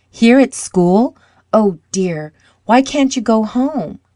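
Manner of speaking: high, incredulous questioning; dismayed surprise. A narrator's reading. Schoolboy learns his friend must stay at school, dismayed surprise.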